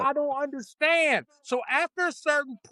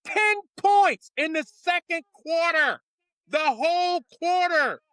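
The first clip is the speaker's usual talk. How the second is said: Ten points a little higher and louder; louder repeat; 4 semitones higher than usual. Acted. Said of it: "now I'm putting on my coach's voice".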